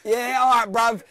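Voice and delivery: laughing, teasing the prank caller. Real, not acted. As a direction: tease him through the laughter.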